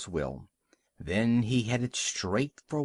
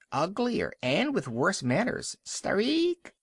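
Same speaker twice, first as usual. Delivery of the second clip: high rising gull screech at the end; mock him like a rude seabird; taunting gull; 7 semitones higher than usual. A narrator's reading. Gull mocking the walrus, high screech.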